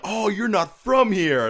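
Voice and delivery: high, loud, drawn-out gushing customer; mock a customer noticing an accent; slow, exaggerated high-pitched reaction; imitated customer. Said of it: "You're like".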